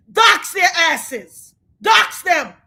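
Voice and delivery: slow, loud, deliberate order; angry command. Real, not acted. Streamer telling the internet to expose jurors, slow angry command. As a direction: spit out the order in real anger. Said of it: "I'm so angry".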